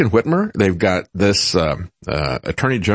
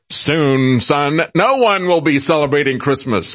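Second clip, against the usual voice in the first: wicked voice; 4 semitones higher than usual. Retold or imitated. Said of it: "she then said in a wicked voice".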